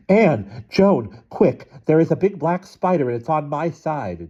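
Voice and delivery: high-pitched panicked squeal. A narrator's reading. Mother alarming her twins about a spider, squealing. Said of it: "clutching her bathrobe and squealing".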